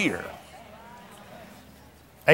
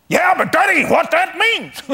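argumentative retort; 9 semitones higher than usual. Retold or imitated. Man argues back at truck.

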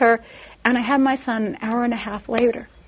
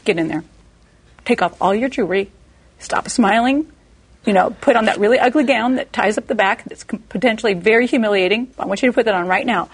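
grumpy nurse. Retold or imitated. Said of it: "a really grumpy nurse".

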